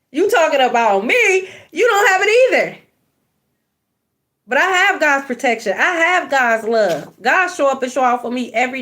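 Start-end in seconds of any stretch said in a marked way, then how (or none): 0.1-2.8 higher, laughing and fast; mocking laugh. Reader mocking a jealous viewer, laughing scornfully. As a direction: cackle back at the hater.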